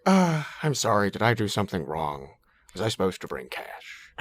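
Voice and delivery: relaxed-throat apologetic voice; Albert Brooks impression. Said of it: "he's always apologizing".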